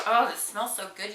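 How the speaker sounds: delighted sniff of product; savoring a smell. Real, not acted. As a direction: relish the scent. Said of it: "That was an aggressive smell".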